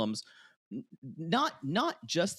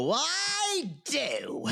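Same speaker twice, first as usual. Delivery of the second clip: high, long-drawn wail, breaking into laughter; hammed-up shrieked question; mock scream; 12 semitones higher than usual. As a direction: playfully scream it out, stretching the first word. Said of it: "I'll probably scream and go".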